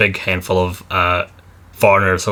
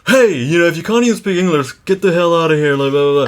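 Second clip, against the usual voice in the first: high-pitched, hammed-up outrage; mock outraged commenter; 7 semitones higher than usual. Imagined Facebook commenter raging at non-English speakers, mock outraged. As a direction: imitate an irate online rant, pitched way up. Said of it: "People would lose their minds".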